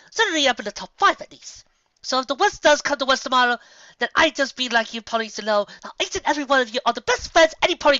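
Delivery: a grand, gushing toast; Rarity. Acted. Rarity voiced in story.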